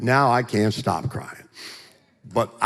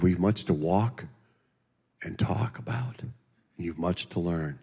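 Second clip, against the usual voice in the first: gentle teacher; 4 semitones lower, 6 dB quieter than usual. Retold or imitated. Jesus voiced, inviting him to walk.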